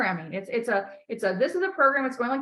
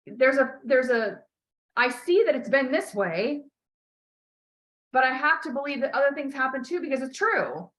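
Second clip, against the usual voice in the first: slow affirmation demo; 2 semitones higher than usual. Shown as a demonstration. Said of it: "you have to start saying".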